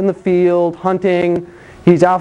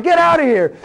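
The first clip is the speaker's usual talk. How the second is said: mock furious shout; 8 semitones higher than usual. Jesus driving out sellers.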